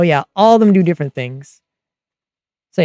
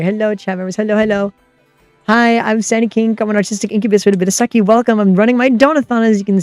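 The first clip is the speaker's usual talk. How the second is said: cute anime streamer; 3 semitones higher than usual. Real, not acted. Cute streamer intro to raiders.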